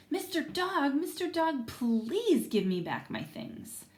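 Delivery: put-on pleading little girl. Salma pleading with Mister Dog for her things. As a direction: beg him like a small girl. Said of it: "Salma pleaded".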